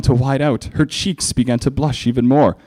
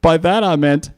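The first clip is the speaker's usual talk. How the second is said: higher, slow teasing reveal; trolling punchline; 8 semitones higher than usual. Acted. Spike trolling Twilight with slow smug reveal. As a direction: stretch out the joke smugly.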